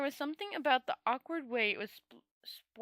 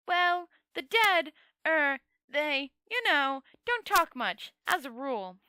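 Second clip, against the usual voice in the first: raised voice; 7 dB louder, slower than usual. Acted. Two Flower answers the dead man.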